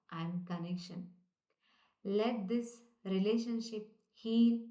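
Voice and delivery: gentle spoken prayer at slow pace; slow prayer recital. Shown as a demonstration. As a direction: lead the listeners through the prayer calmly. Leads a prayer to repeat.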